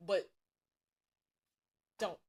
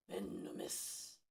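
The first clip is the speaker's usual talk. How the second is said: spooky whisper; 7 dB quieter, much slower than usual. Acted.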